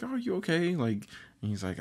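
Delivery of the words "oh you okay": much higher-pitched retold check-in; mock concern, voice lifted high; lightly acted worried question; concerned friend. Best friend checks on sad character.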